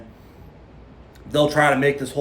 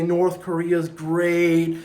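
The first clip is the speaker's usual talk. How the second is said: 1 mocking propaganda; 3 semitones higher than usual. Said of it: "he'll put up all this stuff and say".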